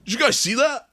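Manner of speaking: high squeaky alien voice. Retold or imitated. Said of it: "the alien goes".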